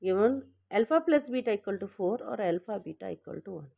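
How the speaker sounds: slowish, words spaced for writing; teacher reading out the givens slowly; slow dictation. Shown as a demonstration. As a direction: dictate it calmly for copying. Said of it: "given लिख सकते हो".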